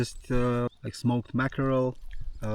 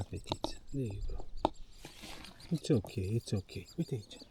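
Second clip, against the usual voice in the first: soothing a scared dog; faster than usual. Real, not acted. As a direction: murmur to calm the frightened dog. Calming the scared dog softly.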